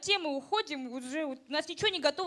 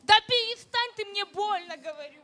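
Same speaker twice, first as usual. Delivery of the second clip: pained yell; 5 semitones higher, 3 dB louder than usual. Acted. Partner grabs her roughly.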